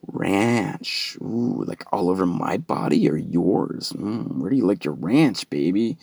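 hushed, lit-up excitement; mock-aroused, softly savouring it; turned-on girlfriend. Girlfriend lights up at his fetish, hushed mock arousal. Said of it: "then she lit up".

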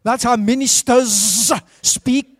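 mock minister, words drawn out; pompous minister. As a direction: stretch the word endings like a solemn clergyman. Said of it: "Have you heard that before?".

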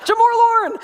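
high, loud "Jamor Lorne", full of OR sounds; or language. Shown as a demonstration. Showing it's fun to say, high playful "Jamor Lorne". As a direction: relish the silly ORs in "Jamor Lorne". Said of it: "it's just fun to say".

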